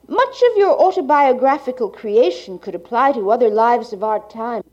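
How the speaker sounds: like a 1980s archival tape. Real, not acted. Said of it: "the cassette holding the speaker's reading".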